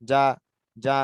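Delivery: যা as a firm "jaa", long vowel; Bengali j sound. Shown as a demonstration. Teacher modelling jim for students, যা with Bengali j. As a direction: say যা like Bengali বর্গীয় জ. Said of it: "বর্গীয় জর মতো উচ্চারণ হয়".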